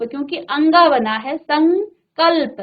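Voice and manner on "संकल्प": stretched slowly, syllable by syllable; slow demo for the pupils; slow model reading. Shown as a demonstration. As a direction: draw the word out for the children. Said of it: "तो अब पढ़ते कैसे हैं".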